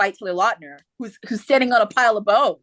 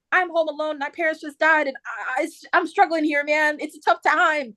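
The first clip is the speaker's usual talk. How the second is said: mildly plaintive, higher-pitched; mock-distressed, pitched up; lightly voiced younger sister; 5 semitones higher than usual. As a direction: plead a little as a struggling sister.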